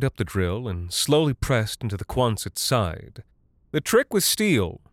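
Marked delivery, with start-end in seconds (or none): 3.7-4.8 raised, higher pitch over machine noise; mild shout. A narrator's reading. Woman instructing him over the mechanism's whine, mild shout. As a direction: project lightly over a whining drill. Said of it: "she shouted over the mechanism's whine".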